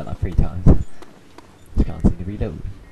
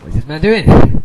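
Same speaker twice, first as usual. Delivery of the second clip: incredulous; 7 semitones higher, 10 dB louder, slower than usual. Real, not acted. Reacting to game chaos.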